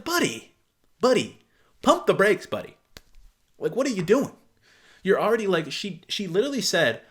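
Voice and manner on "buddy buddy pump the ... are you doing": exasperated plea to calm down; exasperated warning. Pretend. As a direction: pump the brakes, pleading with him. Repeated warning to the guy.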